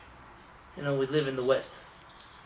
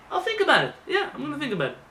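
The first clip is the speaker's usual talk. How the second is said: mock dismissive stalling; 4 semitones higher than usual. Telling yetzer hara to wait.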